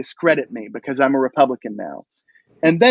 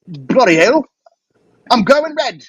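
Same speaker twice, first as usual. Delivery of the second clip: put-on British accent; 8 semitones higher, 4 dB louder than usual. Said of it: "and he went".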